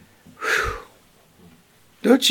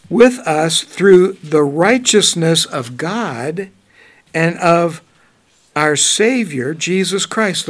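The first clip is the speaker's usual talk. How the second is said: slow, louder reading voice; scripture reading; 4 dB louder, slower than usual. Acted. Reading the Bible verse to the class, slow and solemn. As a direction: read the verse out with weight.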